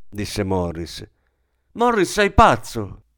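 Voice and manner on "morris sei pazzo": higher pitched cry at her husband; shouting. A narrator's reading. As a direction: cry out in disbelief. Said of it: "gridò Ida".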